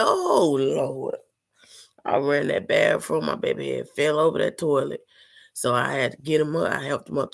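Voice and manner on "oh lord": alarmed cry. Retold or imitated. Hears son fall in bathroom.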